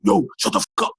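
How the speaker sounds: loud, high scolding from dad; retold tough love. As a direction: imitate a father yelling his son into fighting on. Retold dad's tough-love telling-off.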